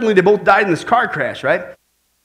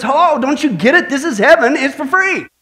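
higher-pitched, mildly fed-up retort; a little exasperated; 4 semitones higher than usual. Acted. Saint Peter answering the old man's cost question, a little exasperated. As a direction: explain it as if patience is running out. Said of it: "starting to get a little exasperated".

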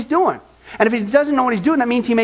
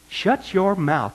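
stern rebuke; much slower than usual. Retold or imitated. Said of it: "what he would say to those folks".

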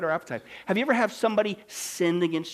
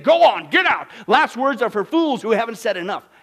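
screamed at nurse; 7 semitones higher, 12 dB louder than usual. Retold or imitated. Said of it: "He screamed at his nurse".

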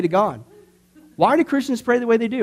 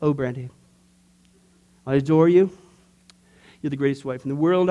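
mock formulaic devotion; 7 semitones lower than usual. Pastor reciting a prayer formula to his wife, lower and mock-adoring. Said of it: "this is the only way I can approach her".

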